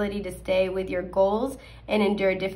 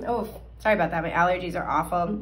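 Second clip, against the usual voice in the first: scratchy voice; 3 semitones lower, faster than usual. Real, not acted. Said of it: "hence the scratchy voice".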